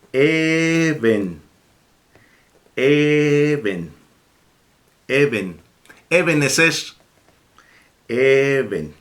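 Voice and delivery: Eben read out slowly, each syllable clear; teacher sounding out Eben; slow reading demo. Shown as a demonstration. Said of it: "Ya puede leer usted entonces".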